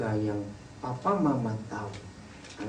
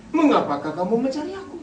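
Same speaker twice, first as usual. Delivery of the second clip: high questioning retort, rising at the end; cheeky challenge in a raised pitch; insolent retort; 9 semitones higher, 4 dB louder than usual. Shown as a demonstration. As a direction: answer back impudently, voice climbing. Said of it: "Kurang ajar nggak kalimat ini".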